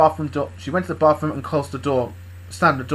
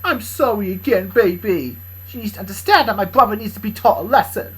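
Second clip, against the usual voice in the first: lightly raised character voice; Bob to a sandwich; 8 semitones higher, 8 dB louder than usual. Acted. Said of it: "she said to her sandwich".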